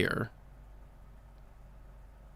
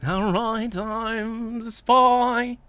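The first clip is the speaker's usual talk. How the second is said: French accent attempt; 11 semitones higher, much slower than usual. Shown as a demonstration. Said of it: "What do the French sound like?".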